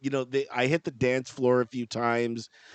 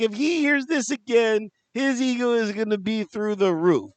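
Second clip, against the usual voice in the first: higher-pitched imitation of a British wife; exasperated British wife, lightly mimicked; British accent; 6 semitones higher than usual. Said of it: "all in a British accent".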